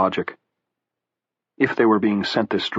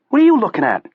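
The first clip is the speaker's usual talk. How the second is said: put-on Southie accent; 14 semitones higher, 6 dB louder, faster than usual. A narrator's reading. Harold snapping at Clay.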